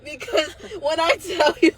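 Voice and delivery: high, half laughing, half crying; laughing through tears. Real, not acted. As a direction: let the tears break into the laugh.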